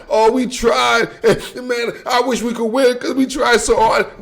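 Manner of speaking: hammed-up pouty plea; mock whiny excuse. Mocking a losing coach to fans, hammed-up whiny excuse. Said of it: "All that".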